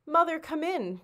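high, glad call to the door; children calling out happily, pitched high; called cheerfully. A narrator's reading. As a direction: welcome your mother home happily. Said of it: "they called cheerfully".

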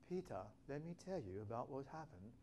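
soft, measured mock storyteller; composed retelling. Preacher imagining disciples talking with Peter, softly composed. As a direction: say it quietly, as if calmly filling a friend in.

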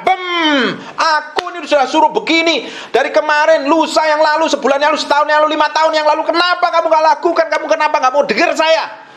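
high-pitched angry tirade, rushing through the list of grievances; exploding wife. Acted. Fed-up wife blowing up at her husband, high explosive rant. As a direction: erupt like a wife at the end of her patience. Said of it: "istri yang bisa meledak".

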